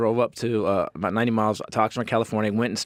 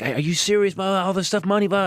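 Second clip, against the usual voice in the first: retold outburst; 7 semitones higher than usual. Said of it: "I flipped out".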